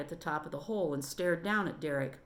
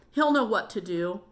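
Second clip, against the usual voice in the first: louder, urgent plea; pleading; 3 semitones higher, 6 dB louder than usual. Acted. Trapped Derek pleads with the boys to fetch his dad. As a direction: beg them to fetch help. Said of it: "pleaded Derek".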